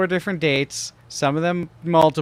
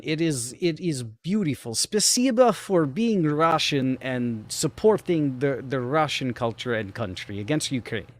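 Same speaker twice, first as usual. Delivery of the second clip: put-on Russian accent. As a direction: play it up as a Russian. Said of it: "you're very Russian right now".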